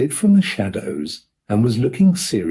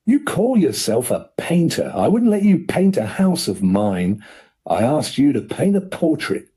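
furious uncle. Acted. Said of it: "turning violently on Corky".

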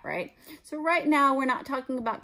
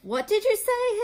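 aunt snaps, much higher and louder; snapped; 5 dB louder than usual. Acted. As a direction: snap it through the door at him. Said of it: "his aunt snapped through the door".

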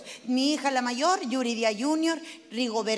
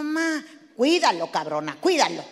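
mother's order; 3 semitones lower, 4 dB louder than usual. Retold or imitated. Mother ordering her daughter to mind the baby, stern. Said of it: "mi mamá sí".

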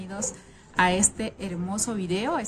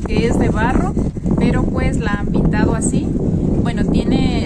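raised voice against the wind; shouting over wind; 8 dB louder than usual. Real, not acted. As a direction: project loudly over gusts. Speaking outdoors in strong wind.

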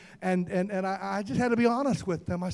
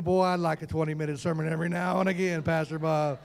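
grumbling congregant's thought; 5 semitones lower than usual. Acted. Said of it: "Some of y'all thinking".

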